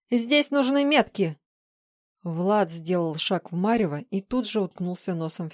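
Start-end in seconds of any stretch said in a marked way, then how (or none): 0.1-1.4 high, loud, frantic insistence; shrieked protest. A narrator's reading. Woman held back from her task, shrieking. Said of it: "взвизгнула тень".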